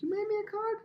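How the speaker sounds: high, delighted squeak of surprise; flattered surprise. Retold or imitated. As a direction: gush like a touched teacher. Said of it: "I'd be like".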